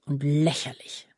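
low, subdued grumbling; hushed, scornful mutter; muttered grumble. A narrator's reading. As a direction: grumble it half to yourself. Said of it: "brummte er".

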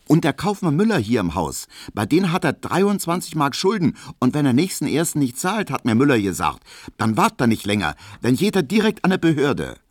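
Frau Piesecke. Acted.

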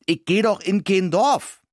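high, squeaky, indignant protest; a city mouse bristling with outrage. Acted. The mouse angrily refusing the dog's village plan, high and squeaky. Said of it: "sagte ich aufgebracht".

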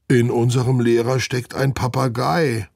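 high, mildly loud exclamation; calling out. A narrator's reading. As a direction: exclaim it in disbelief. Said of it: "ruft Olaf". (ungläubig ausgerufen)

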